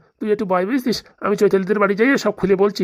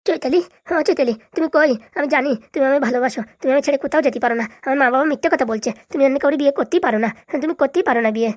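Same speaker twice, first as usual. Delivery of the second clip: high, insistent lovelorn appeal; high-voiced desperate lover; lovesick pleading; 6 semitones higher than usual. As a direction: call out for a lost love, pitched up. Lovesick son calls out for Chaitali.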